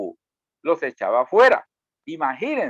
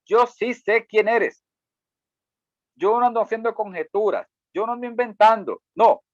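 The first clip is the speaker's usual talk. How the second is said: defiant demon; 5 semitones higher than usual. Acted. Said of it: "Este demonio dice".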